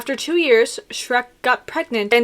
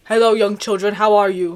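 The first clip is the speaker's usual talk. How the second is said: mock character greeting to children; Mister Bean; 2 semitones lower, 4 dB louder than usual. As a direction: do an awkward comic character voice. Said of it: "Mister Bean doesn't usually talk".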